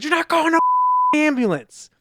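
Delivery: high, loud indignant yell; retold shout. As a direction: shout down the ambulance idea. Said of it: "That's not how Jeremy said it".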